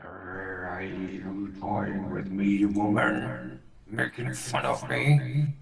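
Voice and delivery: slow, menacing monster voice; suspicious bugbear. Acted. Bound bugbear challenges the woman mocking him, menacing. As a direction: drag the question out as a threat.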